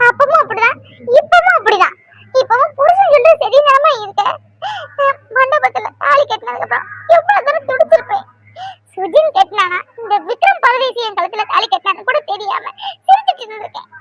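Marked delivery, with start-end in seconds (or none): 0.1-8.2 tearful reproach. Acted. Daughter reproaching mother, crying.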